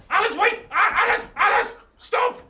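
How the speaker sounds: high, loud calls after her; calling out. Real, not acted. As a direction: call her back. Calling child back.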